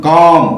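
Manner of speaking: "కామ్" with the long vowel straight into M; silent L. Shown as a demonstration. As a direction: say "కామ్" with no L before the M. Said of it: "ఇక్కడ కూడా ఎల్ పలకలేదు".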